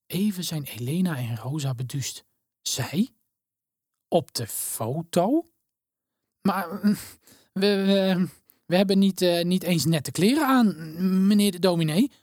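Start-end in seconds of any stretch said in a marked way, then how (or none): 2.6-12.1 stammering shyly. A narrator's reading. Shy girl stammers to the minister about her clothes. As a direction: stumble over the words, shy and unsure. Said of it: "hakkelt Elena".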